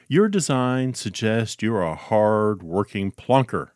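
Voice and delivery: put-on slow, polite British-accented insult. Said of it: "polite way of calling you stupid".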